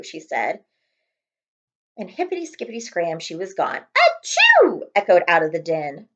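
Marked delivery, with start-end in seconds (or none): 4.0-4.8 a big high sneeze, achoo; loud high sneeze. Acted. Rabbit sneezes from den.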